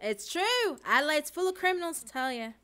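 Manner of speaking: high, loud put-on Australian accent. Streamer backing up the criminals joke, broad Australian accent. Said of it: "Australian and British accents are very close".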